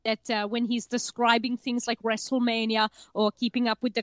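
put-on deadpan serious German accent; earnest German documentary maker on silly subjects; Werner Herzog. Describing the documentary maker to co-host, serious German accent. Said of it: "always sounds so serious".

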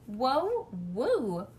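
catching her breath in awe; amazed whoa. Acted. Girl staring at the mirror, breathless and amazed. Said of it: "I said".

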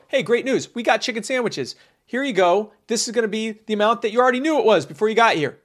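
high, bright and brisk; cheerful cashier. Acted. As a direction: sell it like a happy cashier.

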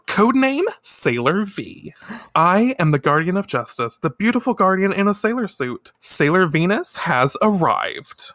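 high-pitched proclaiming heroine voice; heroine catchphrase. Retold or imitated. Minako proclaims her new identity to Higashi, heroic declaration.

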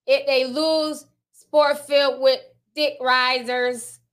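slow, deliberate imitation of a Baltimore accent. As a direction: read it haltingly, word by word, imitating Baltimore. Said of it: "I read it in his Baltimore accent".

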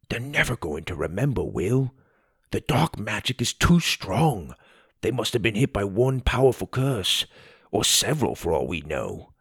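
quiet, fast, grave friend voice; serious Tim. Acted. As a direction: break the bad news gently as Tim.

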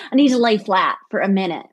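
quick, mildly played-up Southern lilt; Southern accent. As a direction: say it like a Southern lady, lightly. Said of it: "That's very Southern".

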